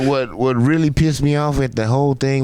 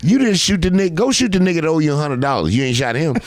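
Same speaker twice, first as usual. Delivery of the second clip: a friend chewing him out, hammed up; mock scolding friend; 8 semitones higher than usual. Friend scolding him over DMs.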